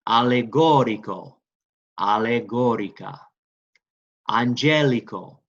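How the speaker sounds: "Allegorico, allegorica" stressed on GO, "Angelico" on GEL; deliberate Italian model words for a class to echo. Shown as a demonstration. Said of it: "Say it with me".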